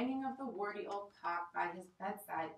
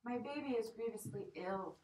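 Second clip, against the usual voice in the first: sobbing; 2 semitones higher than usual. Acted. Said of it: "sobbing as though her heart would break".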